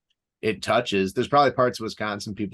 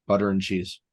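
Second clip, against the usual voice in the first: put-on Chicago accent; 2 semitones lower than usual. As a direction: say it like a Chicago local. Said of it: "It's almost Wisconsin sounding".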